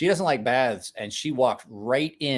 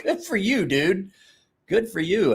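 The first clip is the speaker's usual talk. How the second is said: mock cheering; 7 semitones higher than usual. Retelling his own reaction.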